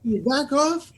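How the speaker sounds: high-pitched fed-up demand; acted exasperation, pushing someone away; exasperated outburst. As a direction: plead to be left alone. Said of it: "he goes like this".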